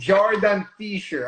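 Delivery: high, loud, slow Brazilian "Zhardan Fisher"; imitated Brazilian accent. Guest loving the new name, imitated Brazilian accent. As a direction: draw out "Jordan Fisher" the Brazilian way. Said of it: "start saying my name like".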